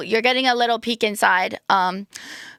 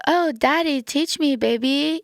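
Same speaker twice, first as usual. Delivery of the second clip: high, coy flirting; 6 semitones higher than usual. Pretend. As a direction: play the helpless flirt. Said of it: "being like".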